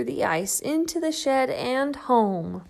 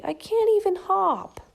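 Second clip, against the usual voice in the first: despairing; 10 semitones higher, 4 dB louder than usual. Acted. Shelley despairs.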